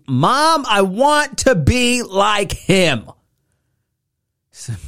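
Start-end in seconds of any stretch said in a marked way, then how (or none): 0.1-3.1 high, drawn-out plea to mom; high-pitched eager kid voice; pleading child. Retold or imitated.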